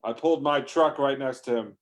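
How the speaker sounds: ordinary delivery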